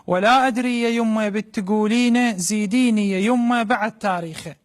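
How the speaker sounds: mother's voice in Iraqi dialect; iraqi arabic accent. Acted. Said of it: "بلهجة عراقية خالصة".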